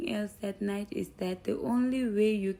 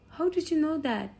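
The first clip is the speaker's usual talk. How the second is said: pitched up high in surprise; mild surprise, higher voice; surprised question; 7 semitones higher than usual. Retold or imitated. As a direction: genuinely caught off guard, how did he know. Dad surprised son guessed.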